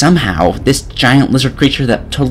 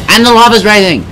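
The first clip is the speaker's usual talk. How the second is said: high, loud, urgent warning; alarmed yell; 7 semitones higher, 5 dB louder than usual. Acted. Player tells Adam the lava rises, alarmed. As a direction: shout it in exasperated panic.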